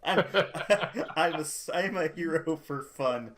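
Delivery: laughing. Real, not acted. Player laughs at his own joke.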